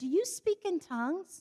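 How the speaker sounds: put-on plain, high little-kid voice. Retelling going up to a couple after their bible study to ask them, in a childlike voice. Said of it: "in my normal childlike voice".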